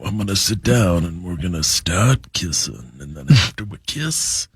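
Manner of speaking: deep-voiced singer impression. Shown as a demonstration. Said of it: "How did those go?".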